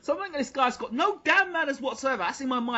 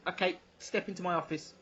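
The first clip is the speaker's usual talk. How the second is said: low invitation; 5 semitones lower, 8 dB quieter than usual. Retold or imitated. Woman at door invites, retold.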